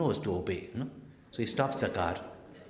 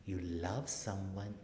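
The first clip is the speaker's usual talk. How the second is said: coy; 7 dB quieter than usual. Retold or imitated. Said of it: "with such, hmm, coy".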